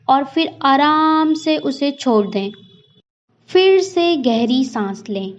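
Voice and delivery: unhurried breathing instructions with long pauses; guided meditation. Acted.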